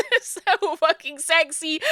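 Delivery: slow, savoring each word; drawn-out gush. Real, not acted. Streamer swooning over the crying character, drawn out. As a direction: linger on it, swooning. Gushing as Robert cries.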